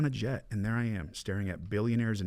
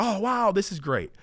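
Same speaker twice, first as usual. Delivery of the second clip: mock starry-eyed gush, much higher and slow; young show-off thrilled with his money, slow and high; naive delight; 12 semitones higher, 4 dB louder than usual. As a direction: play the clueless kid loving it. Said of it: "Being an idiot".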